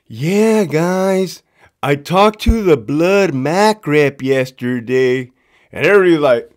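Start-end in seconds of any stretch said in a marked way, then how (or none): 0.1-5.3 slow, stretched-out imitation; mock explanation. Captain C explains himself to the class, slow mock earnestness. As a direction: draw it out like a clueless captain.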